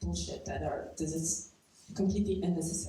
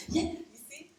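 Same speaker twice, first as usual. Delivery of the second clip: retold quote; 11 semitones higher than usual. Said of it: "they're like".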